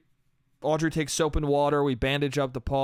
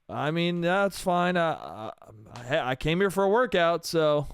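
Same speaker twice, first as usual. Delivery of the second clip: mock winded, halting reply; acting exhausted. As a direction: sigh and stumble through it as if worn out. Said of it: "all tired as fuck, he's like".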